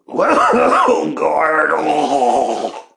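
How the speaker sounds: wheezing through a coughing fit; gasping after choking on a hit; choking on smoke. Real, not acted. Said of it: "I think I bit the dust".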